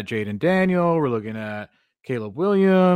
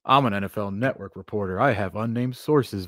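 lightly voiced self-important reporter, lower; 3 semitones lower, 4 dB quieter than usual. Co-host mimicking network reporter's vibe, lightly self-important. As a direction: slightly imitate a reporter's lofty vibe, slowing down. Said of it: "carries himself with this".

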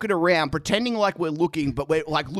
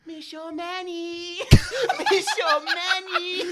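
much softer, slow, high and faint, as if from far off; a creepy faint call from down the hall, half laughing; heard from the distance; 8 semitones higher, 4 dB quieter, slower than usual. Retold or imitated. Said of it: "In the distance".

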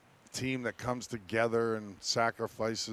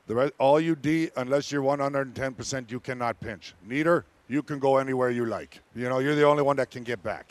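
put-on French accent. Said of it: "okay, in that French accent".

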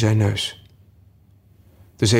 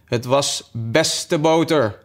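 slow, higher-pitched humble excuse; meek; 5 semitones higher, much slower than usual. A narrator's reading. March Hare answering the cross Hatter, meek and slow. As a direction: answer humbly, drawing it out slowly. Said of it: "antwoordde de Maartse haas deemoedig".

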